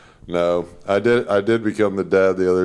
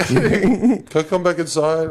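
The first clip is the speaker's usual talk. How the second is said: put-on timid kid; 8 semitones higher, slower than usual. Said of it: "knock, knock, knock".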